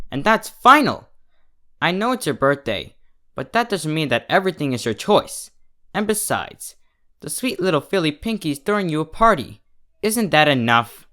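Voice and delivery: firm mother, voice rising at final; strained mother. Acted. Mother refusing her daughter's birthday wish, firm and strained. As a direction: put your foot down, tired of repeating. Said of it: "her mother said, straining her voice".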